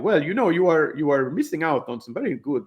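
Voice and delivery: put-on accent of a Seinfeld garage attendant; Seinfeld guy accent. Customer service rep's speech to a cancelling customer, in Seinfeld guy accent. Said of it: "I'm doing the accent of the Seinfeld guy".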